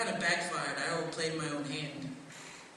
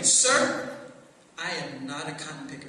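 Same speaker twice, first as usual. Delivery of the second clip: indignant retort; 4 semitones lower, 4 dB louder than usual. Retold or imitated. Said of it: "look them square in their eye and say".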